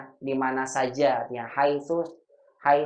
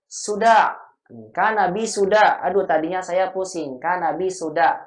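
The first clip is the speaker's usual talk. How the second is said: a groaning student, higher and louder; mock sick student; 4 semitones higher, 4 dB louder than usual.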